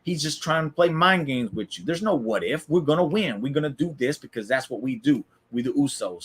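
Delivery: mildly heated imitation of telling someone off; ripping into him. Jimmy ripping into Jay for listening to Sammy. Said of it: "starts just ripping into Jay".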